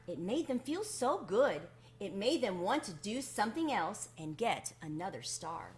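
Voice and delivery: put-on gentle read-aloud to children; storybook narration. A narrator's reading. Reader telling children about the Wemmicks, gentle storybook narration. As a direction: tell it like a bedtime story to kids. Reads a children's picture book.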